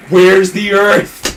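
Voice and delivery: freaking out. Retold or imitated. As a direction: stretch it out in mock panic. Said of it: "And they're freaking out".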